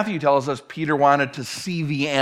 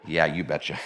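low, softer mock Minnesota accent; 12 semitones lower, 5 dB quieter than usual. Patrick confirming he is from Minnesota, thick Minnesota accent. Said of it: "from Minnesota there".

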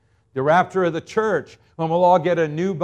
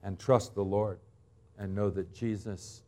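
dropping softer and softer, down to almost nothing; fading to hush; 6 semitones lower, 9 dB quieter than usual. Real, not acted. Preacher to congregation, softening to a hush. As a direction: let each word fall away quieter.

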